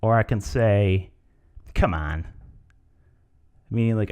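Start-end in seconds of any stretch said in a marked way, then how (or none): 1.7-2.3 low, unimpressed are-you-serious; incredulous. Shown as a demonstration. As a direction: say it in disbelief, pitched low. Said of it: "Are you serious?".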